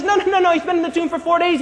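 quick, protesting interruption; fast, insistent refusal; objecting. Acted. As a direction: rush out an objection. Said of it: "Martha raises an objection".

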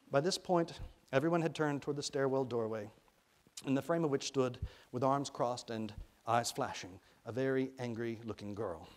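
measured, expressive audiobook reading; storyteller's deliberate phrasing; story narration. A narrator's reading. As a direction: read the story aloud with care.

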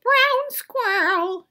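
high, slow whispered grandmother; whispered old grandmother; grandmother whispering. Acted.

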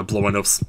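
"nose" ending in a crisp S; quick "blow my nose" with "nose" as "nohss"; unvoiced S closing "nose". Shown as a demonstration. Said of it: "pronunciation of the word nose".

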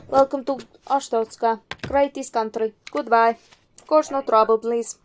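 lightly voiced stern official in a put-on accent; a touch of mock menace from a border guard; border inspector. Inspector waves an entrant through with a warning, mock-stern role voice.

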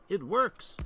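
high, loud thrilled cry; excited shout. Real, not acted. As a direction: shout it out with delight. Repeated joyful exclamation.

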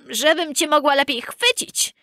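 high put-on granny voice; wolf posing as grandmother. A narrator's reading. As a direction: answer high, as a disguised wolf. Wolf poses as grandmother answering.

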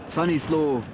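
high rising name call; excited shout. Real, not acted. Last minute attack.

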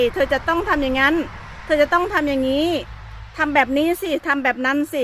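lightly acted bossy nagging; mock nagging. Aunt showing how not to boss a child, mildly nagging. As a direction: imitate someone fussily laying down orders. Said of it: "อย่างเงี้ย มันเป็นการที่จ้ำจี้จ้ำชัย".

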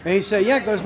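speaking through fingers; muffled behind hand; hand over mouth. Real, not acted. Seen 0: Hand covers mouth and nose while speaking, then moves to point.

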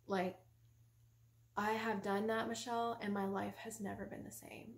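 quiet, even testimony; composed, slightly softened voice; calm husband. Retold or imitated. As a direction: explain it patiently and sincerely. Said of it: "He was so calm".

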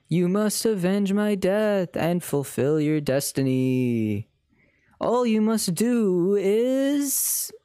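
slow, drawn-out British ghost voice; a solemn British spirit, stretched slowly; British accent. Acted. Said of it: "but British".

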